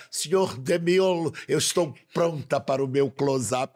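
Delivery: grand diva line from Sunset Boulevard; Norma Desmond quote. Retold or imitated. S1 quoting Norma Desmond's famous line, mock grand diva. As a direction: deliver it like a faded film star. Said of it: "Então Norma Desmond, Sunset Boulevard".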